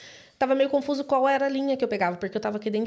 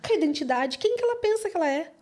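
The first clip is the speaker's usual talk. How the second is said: retold officer's scoffing, much higher at the end; mocking sneer; 5 semitones higher than usual. Airport officer mocking the traveller to a colleague, sneering. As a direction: scoff at her to a colleague, half laughing. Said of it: "falava assim com a outra moça e rindo".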